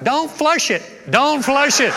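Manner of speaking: panicked yell from the pool; hollered. Retold or imitated. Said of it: "he hollers out".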